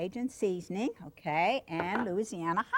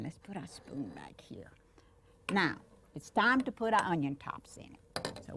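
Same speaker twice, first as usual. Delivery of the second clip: whisper. Real, not acted. Cooking show aside to child.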